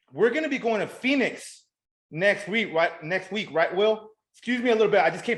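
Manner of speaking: talking with a numb mouth after the dentist; words a bit thick from dental numbness; numb face. Real, not acted. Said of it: "this whole side of my face is numb".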